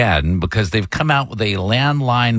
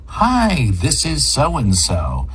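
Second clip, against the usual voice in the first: friendly greeting; 3 semitones higher, much slower than usual. Shown as a demonstration. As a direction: demonstrate a courteous, friendly phone answer. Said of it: "You're supposed to be friendly".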